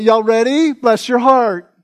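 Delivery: lightly mimicked Southern accent; Southern twang. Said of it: "They got a twang".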